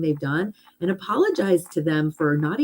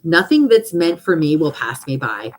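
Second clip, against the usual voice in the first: firm, louder affirmation; affirmation read aloud; 5 dB louder than usual. Shown as a demonstration. Reading her own affirmation to the group, firm and declarative. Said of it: "Here's my one that I had".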